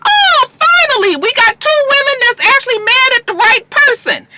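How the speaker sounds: high, exultant exclamation; hammed-up high-pitched celebration; mock relief. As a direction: cry out in exaggerated relief. Her own exaggerated relief, retold.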